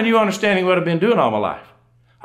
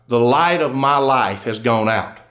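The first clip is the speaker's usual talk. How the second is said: slow, lower inscription reading; solemn dictation; 5 semitones lower, slower than usual. Acted. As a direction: recite it slowly as words for a headstone. Widow dictating words for the monument.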